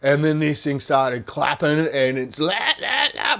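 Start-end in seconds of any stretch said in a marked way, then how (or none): 2.8-3.4 imitated noise. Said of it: "making out this noise".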